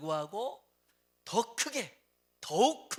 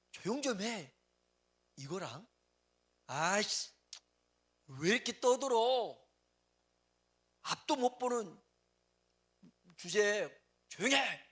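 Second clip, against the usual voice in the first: mock scolding crowd; 3 semitones higher, 4 dB louder than usual. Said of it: "얼마나 기분 나쁘겠어요".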